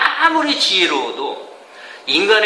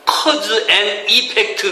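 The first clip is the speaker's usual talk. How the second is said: slow English term; much slower than usual. Shown as a demonstration. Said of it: "인과 법칙".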